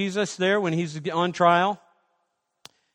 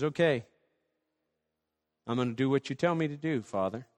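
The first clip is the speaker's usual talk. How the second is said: quiet, surrendering; 4 semitones lower, 7 dB quieter than usual. Acted. Jesus yielding to the Father.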